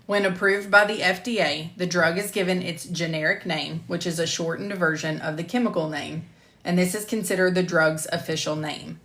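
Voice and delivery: clear, measured e-learning voice-over; lecture narration. Acted. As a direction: present it like a recorded course module. Re-records the lecture slide.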